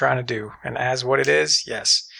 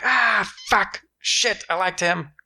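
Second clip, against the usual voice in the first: mock dismayed viewer; 6 semitones higher, slower than usual.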